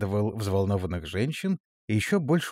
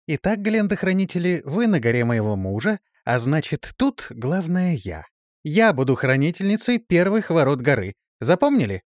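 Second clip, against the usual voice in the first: commanding; 6 semitones higher, 4 dB louder than usual. Acted. Gnome claims command.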